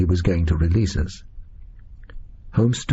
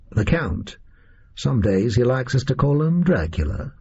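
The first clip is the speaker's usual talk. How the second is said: lightly voiced casual American gunman; American captor. Oswald introduces his freed companions, lightly voiced American captor.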